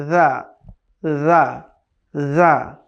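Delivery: যা said softly with a soft z; gentle voiced z in যা; soft Arabic ذ. Shown as a demonstration. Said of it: "এটা খুবই soft, নরমভাবে".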